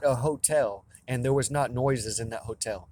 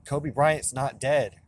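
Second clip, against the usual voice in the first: slow insistence; much slower than usual. Real, not acted. Repeated claim after a pause.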